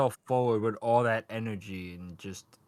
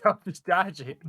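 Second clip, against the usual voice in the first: high, raised mock yell; imitated screaming; 7 semitones higher, 4 dB louder than usual. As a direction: yell it like panicked advice, laughing. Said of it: "All Might screaming at him like".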